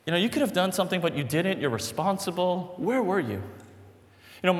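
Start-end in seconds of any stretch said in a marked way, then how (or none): 0.2-3.4 accusing. Acted. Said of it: "Martha is saying this".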